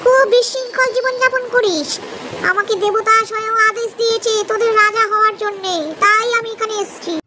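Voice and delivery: puffed up, selling a grand lie; boastful fox. Acted. Fox claims divine kingship. (ছোট বাঁদরকে শিয়াল দেবতার আদেশের গল্প শোনায়, চালাক গর্বিত স্বরে)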